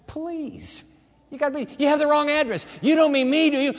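high, disbelieving protest; incredulous listener. Pretend. Preacher voicing a listener who doubts God means them, high incredulous protest. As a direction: play the doubter who thinks it's a mistake.

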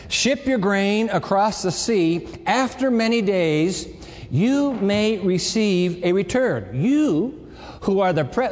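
slow, deliberate verse reading; scripture reading. Acted. Preacher reading scripture slowly to the congregation. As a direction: read the verse slowly to the students. Reads the Bible verse aloud.

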